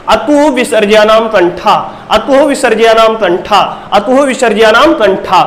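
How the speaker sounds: measured drill-style Sanskrit recitation; rote recitation. Shown as a demonstration. Teacher reading memory tricks for students, rote recitation. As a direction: recite the rule in even repeats. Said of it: "पहले हम एक बार पढ़ लेते हैं".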